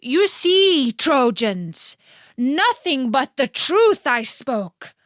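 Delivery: a sly man calling out in triumph to the crowd. Acted. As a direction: proclaim it loudly to the Trojans. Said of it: "called out".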